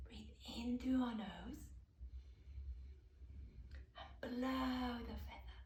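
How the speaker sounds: calm breathing-exercise voice with long pauses; softening towards the last breath out; guided breathing. Shown as a demonstration. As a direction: gently lead children through each breath, leaving room to breathe.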